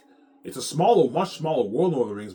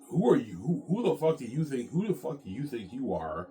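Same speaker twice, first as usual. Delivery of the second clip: a raised, indignant "who do you think you are"; lightly acted outrage at a stranger; mock angry challenge; 6 semitones higher, 3 dB louder than usual. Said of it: "they're mocking him".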